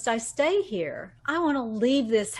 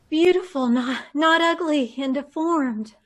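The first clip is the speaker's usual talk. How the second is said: rapturous; 3 semitones higher, 5 dB louder than usual. Acted. Patient sees new face in mirror.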